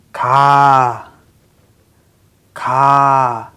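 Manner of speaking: "ka" loud and held on an open ah; syllable reading. Shown as a demonstration. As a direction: read "ka" as a strong, slow syllable. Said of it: "let's read these syllables".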